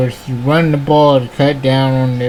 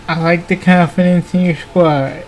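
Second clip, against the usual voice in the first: yawning; 3 semitones higher than usual. Real, not acted. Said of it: "Sorry, I keep yawning".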